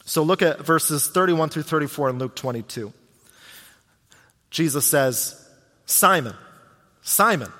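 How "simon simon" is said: serious calling. Acted. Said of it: "getting Peter's attention in a serious way".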